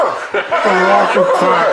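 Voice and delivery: talking around a pencil in the lips. Real, not acted. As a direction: speak with a pencil held in your lips. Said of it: "holding them only with your lips".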